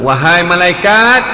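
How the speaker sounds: slow, drawn-out call; divine summons. Retold or imitated. God calling to the angels, slow proclaiming voice. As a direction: summon with measured authority. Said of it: "Allah Ta'ala beritahu".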